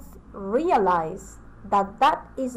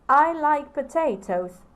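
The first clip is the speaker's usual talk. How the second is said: I like potatoes stressed on I, said higher and louder; enthusiastic statement; 3 semitones higher, 5 dB louder than usual. Shown as a demonstration. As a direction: say it with eager enthusiasm. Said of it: "I'm acting out".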